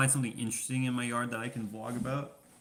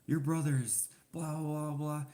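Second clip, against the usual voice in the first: higher, slowed lady's voice mocking her rant; mock scolding lady; 6 semitones higher, slower than usual. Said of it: "And then she's like".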